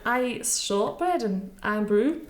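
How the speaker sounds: slow laughing attempt at a Scottish accent. Shown as a demonstration. Guest repeating the host's line in a shaky Scottish accent. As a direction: try the Scottish line slowly, half laughing. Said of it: "shortbread was good. Iron brew let you down".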